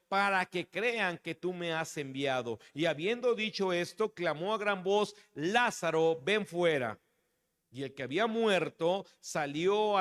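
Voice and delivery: measured Bible reading aloud; scripture reading. Acted. Preacher reads the Lazarus story to the church, measured scripture reading. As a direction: read the passage out solemnly to the congregation.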